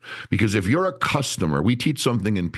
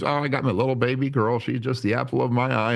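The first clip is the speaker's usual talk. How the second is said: higher put-on voice, conversational; Ricky chatting; 6 semitones higher than usual. Employee telling the trainer about his daughter, casual put-on voice. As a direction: lightly voice an employee talking about family. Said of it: "I was like, "So, Ricky, where are you from?".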